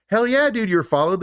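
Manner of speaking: high-pitched, exasperated scoff. Retold or imitated. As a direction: toss it off like it's obvious. Retelling an exasperated movie character.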